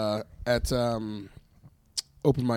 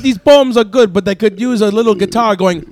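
put-on Jamaican accent; 4 semitones higher than usual. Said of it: "we do great Jamaican accents".

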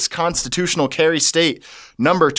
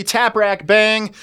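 slow announcer; 6 semitones higher, slower than usual. Acted. Show name announced slowly.

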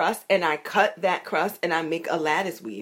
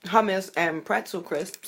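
chewing while talking. Real, not acted. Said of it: "Sorry, I'm chewing".

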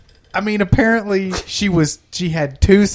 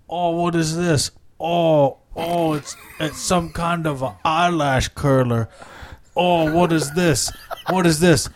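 dazed Wonder Woman; slower than usual. Acted. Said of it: "And she's like".

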